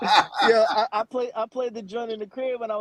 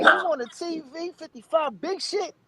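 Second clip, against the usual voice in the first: infomercial pitchman; 6 semitones higher than usual. Retold or imitated. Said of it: "that ghetto infomercial? That's how you do it".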